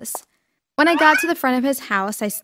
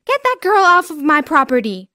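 angry order; 6 semitones higher, 6 dB louder than usual. Acted. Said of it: "I heard a woman's voice say".

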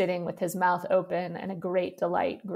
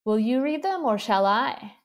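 kind; 4 semitones higher, 3 dB louder than usual. Acted. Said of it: "she asked kindly".

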